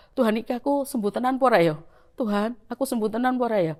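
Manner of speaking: rushed, anxious whisper-to-herself pace; nervous fast prayer. Retold or imitated. Patient nervously asking God before the doctor's verdict, fast and anxious. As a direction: blurt the worried question out quickly. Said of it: "saya sudah deg-degan jantung saya".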